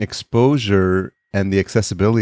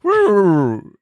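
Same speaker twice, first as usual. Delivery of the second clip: cheer; 12 semitones higher, 4 dB louder than usual. Real, not acted. Echoing the cheer.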